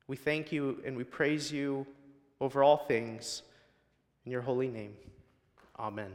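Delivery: preacher praying aloud for his flock; pastoral prayer. Acted. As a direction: pray over the congregation, sincere and steady. Pastor leads congregation in prayer.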